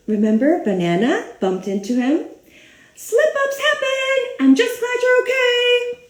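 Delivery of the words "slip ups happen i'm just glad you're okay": higher, sing-song reassuring voice; friendly fruit character. Acted. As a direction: comfort a friend in a high cartoon voice. Banana character reassures the grape.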